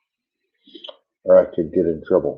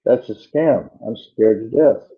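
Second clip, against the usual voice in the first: scared; 5 semitones higher, slower than usual. Retold or imitated. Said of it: "She goes".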